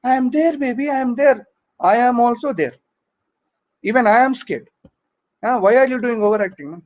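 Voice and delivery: overacting boyfriend. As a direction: lightly ham up a boyfriend pretending bravery. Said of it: "this guy is also doing overacting".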